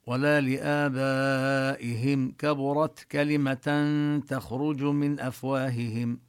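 measured, chanted Quran reading; Quran recitation. Shown as a demonstration. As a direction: recite the verse with careful tajweed, letting the vowels ring. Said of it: "كبرت نبين التاء".

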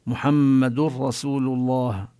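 "محمد رسول" said slowly, tanween merged into a doubled ra; slow, merge the nun into the ra; idgham into ra. Shown as a demonstration. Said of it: "وكذلك في الراء". (إدغام التنوين في الراء ببطء)

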